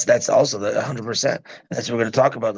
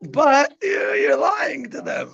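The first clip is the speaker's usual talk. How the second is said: high, raised, slowed insistence; emphatic; 11 semitones higher, slower than usual. Real, not acted. Dad stressing to listeners that it's lying, raised and high. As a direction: press the point hard. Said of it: "emphatic point about lying".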